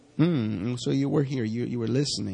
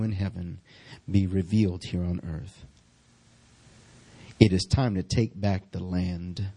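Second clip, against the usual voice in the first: measured, earnest public prayer; leading prayer; 2 semitones lower than usual. Real, not acted. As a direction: pray aloud in spaced-out phrases, leaning on key words. Leads the congregation in prayer.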